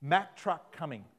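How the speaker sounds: a slow, half-acted warning call of "Mack truck coming"; mock yell warning. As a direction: call out the warning from the roadside, slowed. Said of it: "they yell out".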